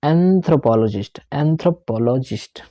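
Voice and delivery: anthropologist with the first "an" held long, slowly; long an sound. Shown as a demonstration. Teacher showing students the long opening sound, slow. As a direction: drag out the "an" in anthropologist. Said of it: "एन को देखो कितना लंबा मैं लेके गया".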